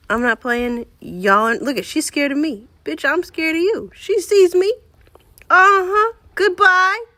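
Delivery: loud, high, panicky; scared yelling. Real, not acted. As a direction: shout at the spider while retreating. Yelling at spider, backing off.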